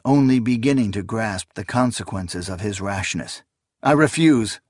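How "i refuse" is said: firm refusal. A narrator's reading. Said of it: "he replied".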